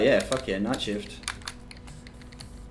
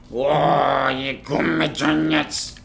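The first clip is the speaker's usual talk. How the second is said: excited; 4 semitones higher, 7 dB louder, much slower than usual. Pretend. Mock excited reaction to donuts.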